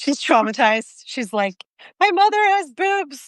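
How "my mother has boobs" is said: put-on very high, drawn-out, weepy sob-talk. A mother acts out her traumatized daughter's reaction: imitating someone crying. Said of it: "And so she's crying now".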